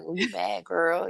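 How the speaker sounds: quiet, knowing little dig. Acted. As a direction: tease gently under your breath. Same tease, retold more quietly.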